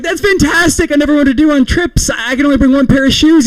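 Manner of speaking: very high, gushing delight; hammed-up thrilled reply; mock excitement. Acted gushing reply to friend.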